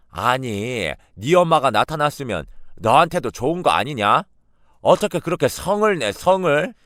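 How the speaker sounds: put-on an old woman scolding her granddaughter; scolding grandmother. (손녀를 나무라는 외할머니의 높은 꾸지람)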